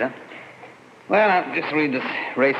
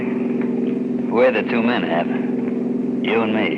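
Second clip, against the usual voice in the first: slow menace; 3 semitones lower, much slower than usual. Acted. Walt reveals the robbery plan.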